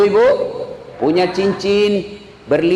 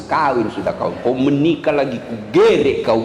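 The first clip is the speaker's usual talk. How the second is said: threatening Bugis wife; 5 semitones lower than usual. Retold or imitated. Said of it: "Dia bilang orang Bugis".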